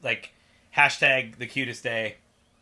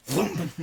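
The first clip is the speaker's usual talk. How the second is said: imitated vroom; 4 semitones higher than usual. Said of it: "and then goes".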